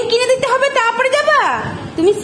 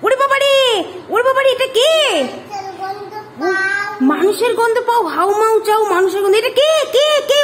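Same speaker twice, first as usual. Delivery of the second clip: mock fright; faster than usual. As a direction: play at being frightened of the ghost. Pretends to be scared of ghost.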